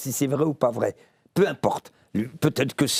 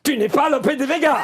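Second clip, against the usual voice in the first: laughing; 10 semitones higher than usual. Real, not acted. Actor plays séance with the audience, laughing. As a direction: crack up at the ghost's denial.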